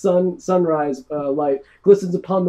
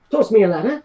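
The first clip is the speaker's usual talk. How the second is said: commanding order; 4 semitones higher, 4 dB louder, faster than usual. Acted. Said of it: "She goes".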